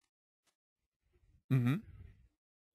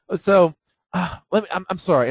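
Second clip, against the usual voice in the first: acting stupid; 4 semitones higher than usual. On the phone with the company, lightly playing dumb. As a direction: fumble the words like you don't get it. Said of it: "And I always act stupid".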